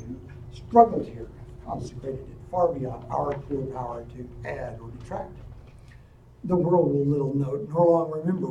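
measured oratory read aloud; a lightly voiced Lincoln oration; formal speech recital. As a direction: deliver it like a solemn address. Recites the Gettysburg Address.

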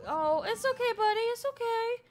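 high, loud cooing reassurance; urgent soothing. Real, not acted. Soothing upset toddler in game.

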